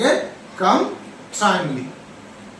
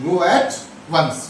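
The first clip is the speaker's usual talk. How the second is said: stretched, careful go at once; slow drilled phrase; much slower than usual. Shown as a demonstration. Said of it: "गोलू".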